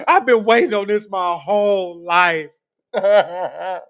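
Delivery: overjoyed crying-out parody of a gleeful critic; hammed-up ecstatic Aaron. Mocking his commenter as ecstatic over Trump, hammed-up shriek of joy. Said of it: "That's what he really think, y'all".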